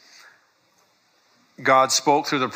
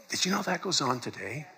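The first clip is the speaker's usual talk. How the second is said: soft hushed aside, much softer; whispering; 3 semitones higher, 8 dB quieter than usual. Real, not acted. Preacher whispers a secret to the congregation. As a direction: lean in and whisper the question. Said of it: "I don't know why I'm whispering".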